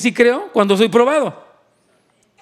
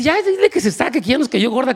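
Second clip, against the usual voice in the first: high, exasperated demand; mock annoyed disciple; fed-up disciple; 3 semitones higher than usual. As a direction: get rid of the annoying woman.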